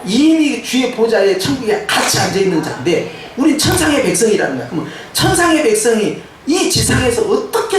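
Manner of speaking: animated, emphatic sermon delivery; preaching. Real, not acted. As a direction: drive the victory home to the congregation. Preaches identity to congregation.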